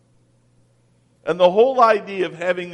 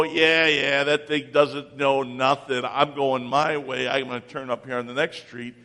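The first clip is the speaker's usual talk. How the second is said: lower, brushing-off mutter, fast at the end; dismissive inner voice; 5 semitones lower than usual. Retold or imitated. Driver dismissing the GPS in his head, mock defiance. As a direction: wave off the GPS. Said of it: "in your mind you go".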